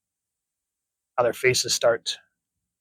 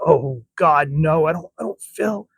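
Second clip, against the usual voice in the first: higher, louder frightened voice; frightened friend asking what's wrong; panicked worry; 3 semitones higher, 3 dB louder than usual. Acted. Character panics, feeling sick.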